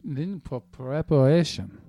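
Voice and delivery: slow, drawn-out mock German accent; very slow reading. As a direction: read it out painfully slowly. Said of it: "Could you read this any more slowly?".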